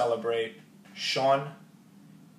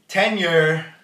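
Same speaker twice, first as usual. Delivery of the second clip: triumphant; 4 semitones higher, 8 dB louder than usual. Real, not acted. Triumphant payoff.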